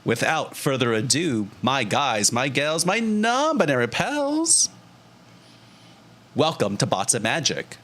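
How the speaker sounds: hosty stream intro, rising through the list; show intro. Acted.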